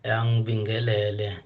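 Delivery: proud loud praise-poet greeting; ecstatic praise shouting. Acted. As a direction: greet the nation at full voice. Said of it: "poet greets South Africa".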